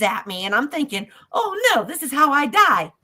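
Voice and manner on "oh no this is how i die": high-pitched retold alarm; mock panic. Storyteller lunged at by a biker, mock panic. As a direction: panic comically, voice jumping high.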